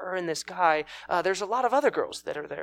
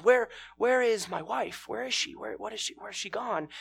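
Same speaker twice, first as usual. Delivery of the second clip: higher-pitched, mildly anxious questions; a husband asking around for someone missing, stumbling over questions; acted worried searching; 5 semitones higher than usual.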